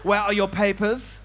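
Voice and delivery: put-on slow, German-accented border guard; mock German accent. Compere playing immigration officer demanding documents, slow mock German accent. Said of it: "I don't know why I'm German".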